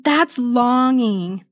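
slow, drawn-out wistfulness; wistful. Real, not acted. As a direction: savour each word, moved. Moved by rereading letter.

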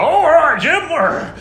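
loud, high mock-British shepherd; hammed-up British accent, calling to a mate; comic British shepherd accent; put-on British accent. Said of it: "Don't know why I did that accent".

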